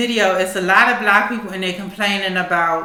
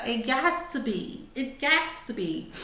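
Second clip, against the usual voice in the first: soft; 4 semitones higher, 9 dB quieter, slower than usual. Real, not acted. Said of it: "repeated for emphasis".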